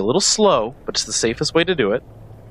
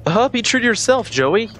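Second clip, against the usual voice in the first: sarcastic; 8 semitones higher than usual. Real, not acted. Mocking Joey's audio log line.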